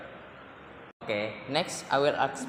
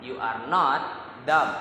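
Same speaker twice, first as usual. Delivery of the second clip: not punched louder, dumb set apart after a pause; stress on not; 4 dB louder than usual. Shown as a demonstration. Student giving a second stress example, stress on not. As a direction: hit the word not, then pause. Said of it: "Native speaker is usually stress certain word".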